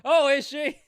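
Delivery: high, loud surprised squeal; startled high-pitched oh. Real, not acted. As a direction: blurt it out in shock. Surprised reaction, big jump.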